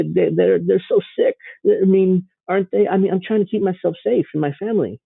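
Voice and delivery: lightly voiced scared stay-at-home type, mocking; mock sheltered homebody. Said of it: "They just wanna stay home".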